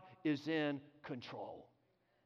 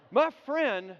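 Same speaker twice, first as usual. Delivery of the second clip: ordinary delivery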